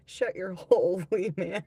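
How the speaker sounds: put-on loud, joking Scottish accent; playful Scottish telling-off. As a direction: read it out in a mock Scottish accent, laughing. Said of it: "The Scottish accent".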